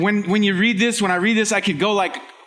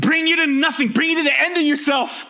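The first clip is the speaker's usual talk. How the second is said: higher-pitched, forceful preaching; coming on strong; 5 semitones higher than usual. Real, not acted. Preacher on what Ecclesiastes does to you, coming on strong. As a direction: press each phrase home to the congregation. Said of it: "He's coming on strong".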